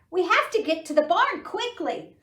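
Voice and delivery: high, loud, fast duck urging. Acted. Duck hurrying animals to the barn, fast high call. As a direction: rush the words in a high duck voice.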